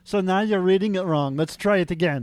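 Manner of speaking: fussy, hammed-up German accent; Tim voice. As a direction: correct him in a put-on German accent. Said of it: "I have to do the Tim voice".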